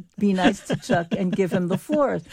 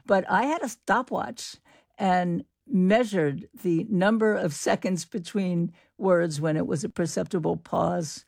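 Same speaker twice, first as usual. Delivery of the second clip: usual speaking voice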